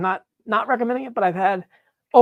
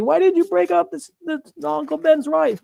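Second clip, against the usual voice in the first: louder and higher, mock indignation; mock viewer yell; 9 semitones higher, 5 dB louder than usual. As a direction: imitate viewers scolding you, hammed. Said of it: "you're all gonna yell at me".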